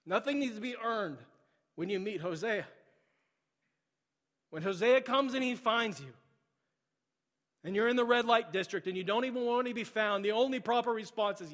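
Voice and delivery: preaching at full force. Acted. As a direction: drive the point home to the church. Loud preaching climax.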